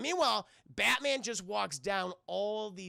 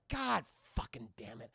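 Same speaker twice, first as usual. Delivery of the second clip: low, softer whispered swearing; whispered curse; 7 semitones lower, 4 dB quieter than usual. Acted. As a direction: hiss the curse under your breath. Batman curses under his breath.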